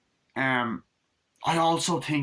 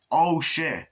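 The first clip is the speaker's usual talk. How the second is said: startled oh shit; 5 semitones higher than usual. Retold or imitated. Startled reaction.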